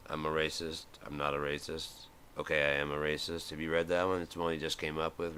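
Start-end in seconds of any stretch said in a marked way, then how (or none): 0.1-3.5 mock David Duke. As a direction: lower and softer, flip-flopping confession. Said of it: "David Duke's autobiography".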